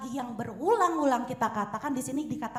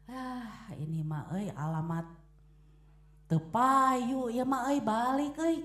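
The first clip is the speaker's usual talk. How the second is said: gloomy grumble; slower than usual. Retold or imitated. Gloomy vendor muttering, Sundanese.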